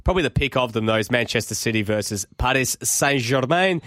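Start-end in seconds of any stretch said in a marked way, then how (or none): 2.4-3.8 put-on French accent. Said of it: "Not the best French accent right there".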